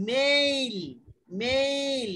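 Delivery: মেইল said with a clear ei glide; teacher showing how to say mail; pronunciation demo. Shown as a demonstration. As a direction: model মেইল slowly. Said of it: "M A I L".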